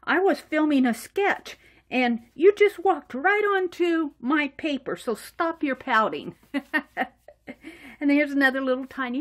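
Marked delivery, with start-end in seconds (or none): 0.0-6.4 mock scolding. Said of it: "and Mary says".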